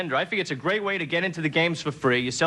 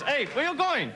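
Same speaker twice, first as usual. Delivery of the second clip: dubbed movie voice; 9 semitones higher than usual. Retold or imitated. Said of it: "Like this".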